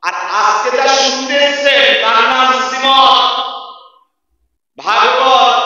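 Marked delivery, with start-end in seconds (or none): 2.7-5.6 ভাগবত set apart with a long aa; pause, then sound out ভাগবত with open first vowel; careful pronunciation. Shown as a demonstration. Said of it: "লক্ষ্য করুন".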